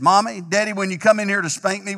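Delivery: put-on a kid wheedling from bed; lightly voiced child, a touch cheeky; child calling out. Child's last cheeky request.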